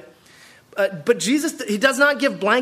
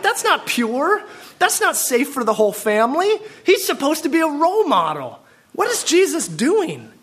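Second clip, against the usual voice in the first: scandalized mock; 5 semitones higher than usual. Mocking Pharisee scandalized voice.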